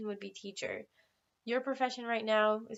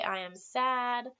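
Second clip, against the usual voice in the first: slow model answer; 2 semitones higher, much slower than usual. Shown as a demonstration. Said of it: "Some people might say".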